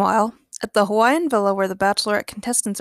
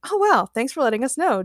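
polite; 4 semitones higher than usual. Acted. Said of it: "James politely replied".

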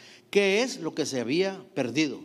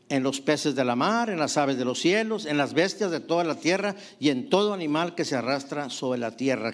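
scripture reading. Acted. Preacher reads Genesis aloud.

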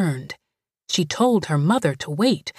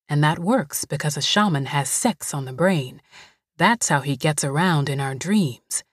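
Greasy soothing; 2 semitones lower than usual. Acted. Greasy explains trick.

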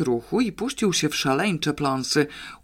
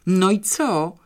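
sharp, raised question; shouted question; 5 semitones higher, 4 dB louder, slower than usual. Acted. Father shouts at children for news, raised voice. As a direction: call it out impatiently. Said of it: "krzyknął pan Chabrowicz".

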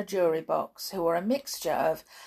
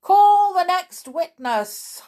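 slow, loud dismissal, rising higher; dismiss, then summon even higher; commanding king; 10 semitones higher, 11 dB louder, slower than usual. A narrator's reading. King dismissing the Hatter, loud slow command. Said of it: "said the king".

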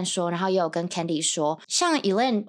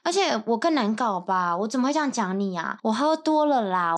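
fake apology; 6 semitones higher than usual. Friend's fake apology, retold mockingly.

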